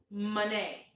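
"Monet" as muh-NAY, T left silent; English pronunciation. Shown as a demonstration. Host repeats the viewer's name, English pronunciation. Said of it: "pero en inglés es Monet".

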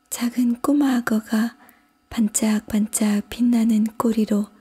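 put-on high, girlish verse recital; reciting a poem. A narrator's reading. Alice reciting as in class, hands in lap. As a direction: recite line by line like a schoolgirl, pitched high. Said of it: "시를 읊기 시작했다".

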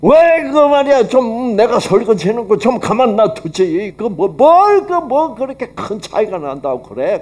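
high, loud exasperated outburst; husband scolding wife over redone dishes; angry retort. Retold or imitated. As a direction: snap back at the wife in retold anger. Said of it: "열 받으니까 화가 나".

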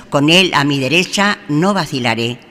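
ordinary talk, nothing marked

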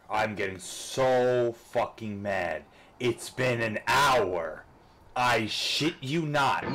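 grind out each word in frustration; slow seething rage; slow angry rant. Real, not acted. Raging at the game.

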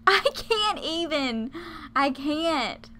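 overwhelmed amazement. Real, not acted. Player overwhelmed by his reaction, amazed. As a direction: stretch it out, overcome by what you see.

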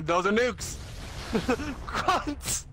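high excited shouting; excited yell. Real, not acted. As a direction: yell it with glee.

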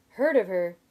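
loud, incredulous echo; going shrill. A narrator's reading. Sim incredulous at his friend's understatement, going shrill. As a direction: throw it back loudly, voice going shrill. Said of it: "his voice going shrill".

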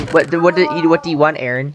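low, suspicious questioning. Real, not acted. Player asks Aaron his price for building, suspicious and low. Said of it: "Said that in a very pers-, pers-, suspicious voice".

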